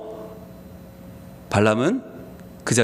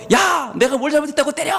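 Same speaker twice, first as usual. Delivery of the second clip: higher, shouted donkey voice in another timbre; protesting shout; 7 semitones higher than usual. Acted. The beaten donkey shouts back at Balaam in protest. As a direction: cry out at the unfair beating.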